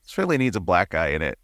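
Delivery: a hint of a smug studio suit rattling it off; studio executive. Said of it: "someone in a meeting somewhere was like".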